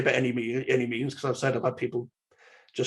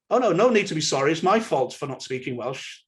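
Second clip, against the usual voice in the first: overeager apology. Retold or imitated. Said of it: "conversations like this".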